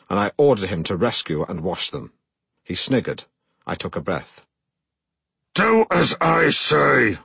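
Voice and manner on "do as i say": slow, measured order; deliberately calm, drawn-out instruction; calm command. Retold or imitated. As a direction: say it slowly and evenly, a mock-calm command. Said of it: "I said calmly".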